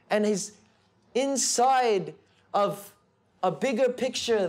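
fervent. Real, not acted. Preacher stresses divine plan.

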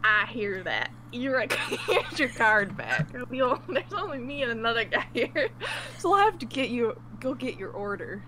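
put-on a touch of a rural country accent. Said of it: "he's got a country accent".

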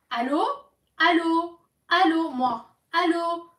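insistent hello into the phone; calling out hello. Real, not acted.

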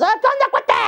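very high put-on child-character voice; high-pitched silly mimic; Martians talking like Chabelo. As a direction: squeak it out like a comic big kid. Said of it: "todos hablan así".

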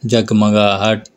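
each syllable stretched wide; slow teacher's model word; slow, drawn-out demo. Shown as a demonstration. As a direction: spell it out slowly for the class. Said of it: "और बताइए".

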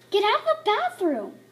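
loud, high shout through the door; yelling. Acted. Family member to girl hogging bathroom, a loud shout. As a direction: yell at her to get out.

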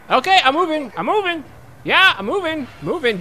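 high panicky rush to comply; mock panic. Gamer playing scared under a guard's gun, mock panic. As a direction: scramble to obey a gun, playfully.

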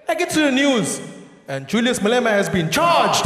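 normal talking voice

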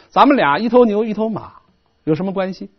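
casual, offhand teasing question; light joking tone. Shown as a demonstration. Chu envoy teases Duke Huan of Qi, lightly joking. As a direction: brush it off lightly, half in jest. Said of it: "轻描淡写、开玩笑的说".

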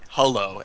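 "hello" said as "hullo"; hullo pronunciation. Shown as a demonstration. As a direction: say "hello" with an uh in the first syllable. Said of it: "as in H U L L O".

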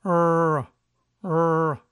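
"R" as a curled English r, held; English R sound. Shown as a demonstration. Teacher demos the English r for learners, carefully. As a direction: model the r sound twice. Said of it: "que como ya sabemos suena".

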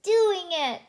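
high, loud, slow cheer of delight; happy exclaim. A narrator's reading. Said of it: "said Periwinkle happily".

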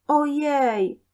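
high, startled little cry; shocked at one's own sight; dismayed exclamation. A narrator's reading. Boy sees himself in mirror, high and dismayed.

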